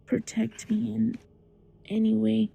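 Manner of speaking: soft, pleading retold prayer; praying. Frightened child praying on the bed, soft plea. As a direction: quietly ask God for protection. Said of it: "I just started praying".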